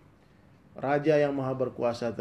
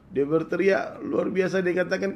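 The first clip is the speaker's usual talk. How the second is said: building yell; 7 semitones higher, 8 dB louder, slower than usual. A narrator's reading. Narrating the waking scream.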